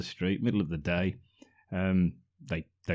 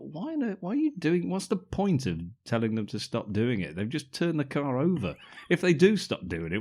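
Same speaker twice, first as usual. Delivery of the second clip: incredulous rant; 4 semitones higher than usual. Retold or imitated. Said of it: "And I thought".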